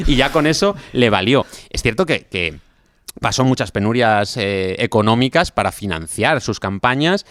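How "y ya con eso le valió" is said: says it through a short laugh; amused, laughing while finishing the joke. Real, not acted. Joke about inheriting everything. (riendo al rematar la broma)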